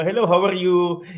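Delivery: quick Filipino-accented greeting demo; light, playful Filipino accent. Shown as a demonstration. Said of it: "Our Filipino accents, like".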